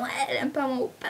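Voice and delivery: quick put-on fan protest; mock offended fan. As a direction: lightly mimic a complaining fangirl. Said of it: "en me disant".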